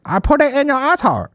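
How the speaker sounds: high, loud mock Asian accent; vaguely Asian accent. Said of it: "Don't know what accent that is. Vaguely Asian".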